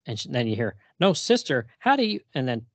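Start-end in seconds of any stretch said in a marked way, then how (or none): 1.0-2.2 higher, louder startled question; mock surprise from the clerk; shocked. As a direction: catch them off guard. Shocked voice on the phone.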